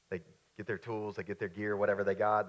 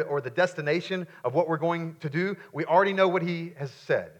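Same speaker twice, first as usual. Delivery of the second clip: raised, insistent sermon delivery; emphatic preaching; 7 semitones higher, 10 dB louder than usual. Acted. Preacher urging the congregation to bold faith, emphatic. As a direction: preach it out, landing hard on key words.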